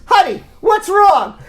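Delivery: hammed-up puzzled husband; clueless husband. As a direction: play the oblivious husband, drawn out. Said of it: "and he says".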